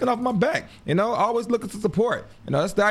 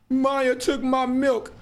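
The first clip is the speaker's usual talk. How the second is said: put-on whiny crying kid; 7 semitones higher, much slower than usual. Imitating crying child complaining.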